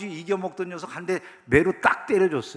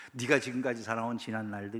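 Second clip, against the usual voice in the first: normal talking voice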